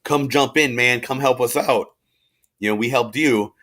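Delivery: hammed-up chummy plea for help; France as a pushy pal. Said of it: "France is like".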